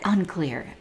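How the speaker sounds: whispered, hushed answer; whispering. Acted. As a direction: breathe it out in a whisper. Answering own gross question.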